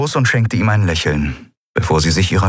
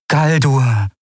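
mother's mild, higher interjection; gentle; 6 semitones higher than usual. A narrator's reading. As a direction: gently check him by name. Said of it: "sagte ihre Mutter sanft". (sanft mahnend)

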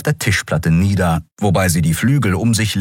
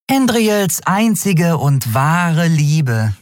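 high-pitched little gossip, mocking; scornful Nelen; 11 semitones higher than usual. Nelen describes Sephiron to Miko, high and scornful. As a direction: pronounce it grandly, high, with scorn.

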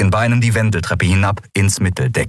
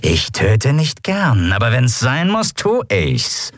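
pirate rumble; 5 semitones higher, slower than usual. A narrator's reading. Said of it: "brummte die Skria".

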